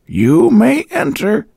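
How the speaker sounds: high, slow, spiteful invitation; vicious old woman. A narrator's reading. Landlady letting Boyce in, spiteful and slow. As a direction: grudgingly let him in. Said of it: "accent more vicious than hospitable".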